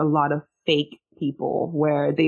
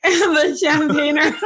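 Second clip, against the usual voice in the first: laughter breaking through, slow; can't get the words out for laughing; trying not to laugh; 11 semitones higher, 4 dB louder, slower than usual. Real, not acted. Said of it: "Stop making me laugh".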